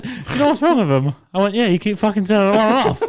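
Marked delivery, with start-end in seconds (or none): 0.0-1.1 quoting her through giggles; laughing while asking; giggly retold question. 1.5-3.0 fast, louder exasperated retort; higher, louder retold retort.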